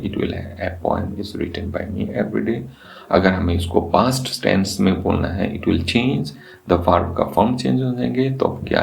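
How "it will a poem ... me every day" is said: slow dictation. Shown as a demonstration. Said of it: "उसी को हमें पैसिव बनाना है".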